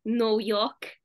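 demonstrated New York accent. Shown as a demonstration. Showing how the accent was learned, a New York accent. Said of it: "if you say no and York together".

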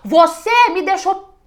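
furious complaint to a partner who showed up late; aggressive outburst. Shown as a demonstration. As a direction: blast your partner for being late. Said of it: "É diferente de eu falar".

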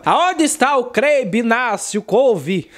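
lightly voiced pastor, slow and unsure; a hint of a puzzled pastor; pastor reading slowly. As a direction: drag the garbled name out like a puzzled preacher. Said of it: "ele leu assim".

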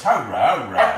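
excited pet praise; cheering. Real, not acted. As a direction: cheer the dog on. Cheering the dog.

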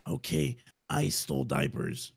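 hushed. Acted. Dad confessing to his child, hushed. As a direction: keep it down, confess quietly.

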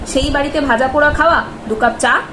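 ordinary delivery

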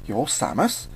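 slow, awed double-take; stretched-out disbelieving question. Acted. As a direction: ask it slowly, in awe. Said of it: "Sonic was in awe".

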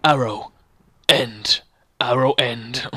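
low, deliberate word by word; demonstrated reading voice. Shown as a demonstration. Brother showing Nathan how to read, deliberate announcer. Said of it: "you gotta do this".

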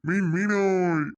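long, loud hawker's call of fish; street vendor call. Acted. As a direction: cry out your fish to the street. Fish seller calling out wares. (தெருவில் மீன் விற்பவரின் நீண்ட கூவல்)

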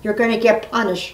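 mild grandmotherly scolding. Real, not acted. Grandma scolding a rude fan, mild scolding. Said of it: "That isn't very nice".

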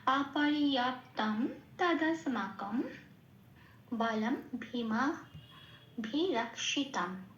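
slow, measured verse recital; slow recitation. Shown as a demonstration. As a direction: recite the whole line steadily. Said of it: "পুরো লাইনটা কি পেলাম". (ধীরে পুরো line আবৃত্তি)

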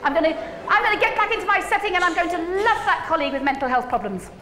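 mock bright resolve; mock cheerful optimism. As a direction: play the naively upbeat teacher.

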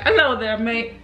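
joking attempt at British; British accent. Shown as a demonstration. Answering a friend's challenge, mock British accent. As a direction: try a cheeky mock-British greeting. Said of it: "How's your British accent?".

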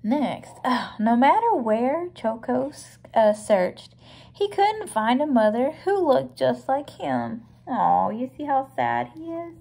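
clear, emphatic picture-book reading; read-aloud storybook. A narrator's reading. Reading about Choco searching for a mother, storybook narration. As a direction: read it out to a little listener.

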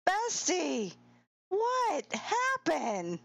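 high, drawn-out dismay; high, slow, stretched-out question; dismayed exclamation. Real, not acted. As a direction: cry out to the fallen racer. Exclaims at player's fall.

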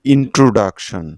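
ইন্ট্রোডাকশন spaced out as ইন-ট্রো-ডাক-শন; syllable-by-syllable pronunciation. Shown as a demonstration. Teacher combines all syllables for learners, ইন্ট্রোডাকশন in measured pieces. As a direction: sound out each syllable of ইন্ট্রোডাকশন distinctly. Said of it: "সবগুলো সিলেবলকে একত্রে মিলালে".

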